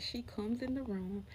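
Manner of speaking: whispered, spooky storytelling. Acted.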